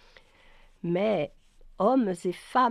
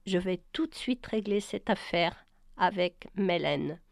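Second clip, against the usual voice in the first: gently. Acted. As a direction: ease her out of the room kindly. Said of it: "Brian ajouta avec plus de douceur".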